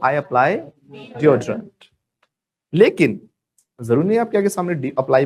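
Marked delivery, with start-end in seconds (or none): 0.0-1.7 I apply deodorant, very slowly; slow dictation. Shown as a demonstration. Teacher slowly modelling the sentence to repeat. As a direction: draw each word out for the class. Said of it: "बोलो".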